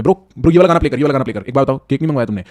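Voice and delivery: excited pal asking for the song; loud party energy. Shown as a demonstration. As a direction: hype up the party again. Acted bringing the party back.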